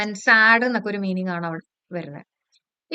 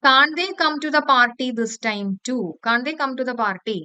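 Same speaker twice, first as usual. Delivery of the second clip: slow reading; much slower than usual. Shown as a demonstration. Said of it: "അതുകൊണ്ടാണ് ചോദിക്കുന്നത്".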